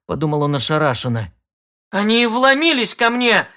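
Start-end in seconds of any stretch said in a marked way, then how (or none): 1.9-3.5 high, outraged yell. Acted. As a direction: shriek it out indignantly. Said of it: "заорала Кластер".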